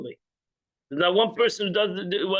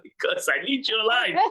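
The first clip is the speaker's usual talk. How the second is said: laughing; 3 semitones higher than usual. Real, not acted. Laughing punchline.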